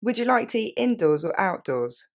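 said in one breath at normal pace; one fluid polite question. Shown as a demonstration. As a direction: run it together smoothly. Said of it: "Et je répète d'un coup".

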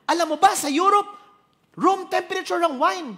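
loud, high scolding at the waiter; dad loudly lecturing the waiter about wine; father shouting at waiter. Retold or imitated. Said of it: "Ba't niya sinisigawan?".

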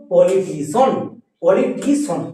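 "পলিটিশন" said slowly, ending in one syllable "শন"; সঠিক উচ্চারণ. Shown as a demonstration. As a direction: model "পলিটিশন" clearly, no "সিয়ান". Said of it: "এটা হচ্ছে আমাদের সঠিক বানান". ("পলিটিশন"-এর শেষে এক টানে "শন")

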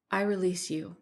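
calm, composed declaration. A narrator's reading. Mina frees the entity that hurt her, calmly. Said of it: "said Mina calmly".

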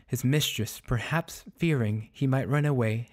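measured, clearly articulated storytelling; story narration. A narrator's reading. Narrator telling of the dog held by his mistress, measured storytelling. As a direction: read it out as literary fiction.

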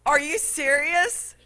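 high, whiny disbelief repeated; baby fit. Retold or imitated. Preacher repeating his whiny protest to the cashier. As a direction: keep the tantrum going. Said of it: "having my little baby fit".

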